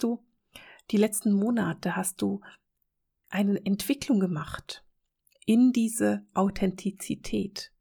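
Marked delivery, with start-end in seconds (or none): 5.5-7.7 Authentizität spoken slowly, syllable by syllable. Real, not acted. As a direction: ease carefully through Authentizität. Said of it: "Ich muss es ganz, ganz langsam sagen".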